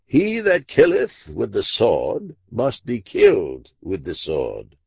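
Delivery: slow, weighty recitation of scripture; solemn scripture quote. Acted. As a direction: intone it like a verdict from God. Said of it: "Mark the language of it".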